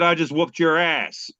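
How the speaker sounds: lightly put-on wrestler catchphrase; a hint of wrestling promo bravado; Stone Cold Steve Austin. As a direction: deliver it like a wrestler's signature line. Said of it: "say it like he does".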